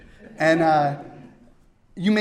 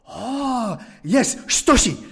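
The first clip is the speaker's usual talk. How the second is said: put-on higher accented reply; imitating Toshi; 7 semitones higher, 4 dB louder, much slower than usual. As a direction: agree brightly. Toshi confirming his name.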